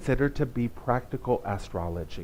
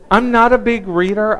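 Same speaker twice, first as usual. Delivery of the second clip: higher and louder, with a laugh; laughing aside; 8 semitones higher, 13 dB louder than usual. Real, not acted. Confessing to the congregation between laughs. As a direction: own up to it through a laugh.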